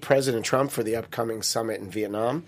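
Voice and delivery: comic news anchor delivery; mock newscast read. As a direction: read it out like a headline with a punchline. Reads joke news headlines.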